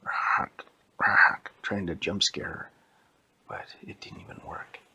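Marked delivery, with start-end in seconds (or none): 0.0-1.5 robot noise. Retold or imitated. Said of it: "head was still going like".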